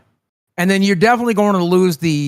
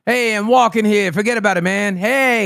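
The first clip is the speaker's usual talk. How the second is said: brash New York accent; hammed-up Northern American accent; 2 semitones higher than usual. Shown as a demonstration. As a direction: demonstrate a New Yorker on the street. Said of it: "In the North, it'd be something like".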